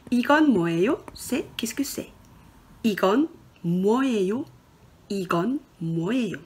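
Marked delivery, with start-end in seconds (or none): 2.8-6.4 이건 뭐예요 said fast, twice over; quick repetition. Shown as a demonstration. Teacher drilling the question for learners, quick. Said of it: "qu'est-ce que c'est en coréen?".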